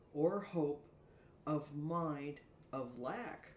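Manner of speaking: slow, measured poetic reading with pauses; soliloquy recital. Acted. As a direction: recite your own verse, drawing out each phrase. Reads her own soliloquy aloud.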